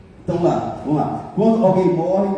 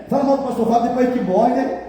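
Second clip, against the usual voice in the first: ordinary talk, nothing marked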